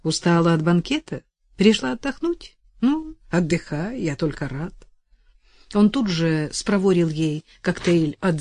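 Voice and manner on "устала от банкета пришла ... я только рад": cheerful bartender. Acted. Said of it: "радостно приветствовал".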